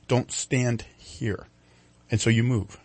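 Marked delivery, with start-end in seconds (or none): 0.1-1.5 slow inner voice. Retold or imitated. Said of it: "you almost hear things like".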